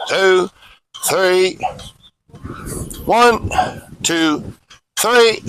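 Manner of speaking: evenly spaced exercise count, each number on its own; measured count with pauses between numbers; drill cadence count. Real, not acted. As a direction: count out reps like a drill instructor.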